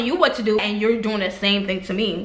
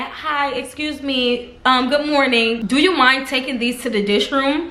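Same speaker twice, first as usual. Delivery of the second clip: butter up the coworker with manners; quoting her own polite request to Vanilla, sweetly; extra polite; slower than usual. Retold or imitated. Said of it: "These are all words of great vibe".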